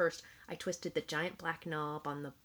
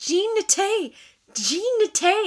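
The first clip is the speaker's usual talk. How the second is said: full-lung, drawn-out scream, very high, shrill, loud; 14 dB louder than usual. Recounting screaming until the parents ran in, retelling a scream. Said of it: "And then I started screaming".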